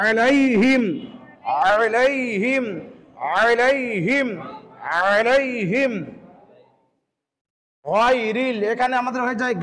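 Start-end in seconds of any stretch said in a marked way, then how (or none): 0.1-5.9 আলাইহিম with a rising end; correct version. Shown as a demonstration. Teacher models the right আলাইহিম for learners. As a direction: recite আলাইহিম carefully. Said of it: "সঠিকটা হবে কি".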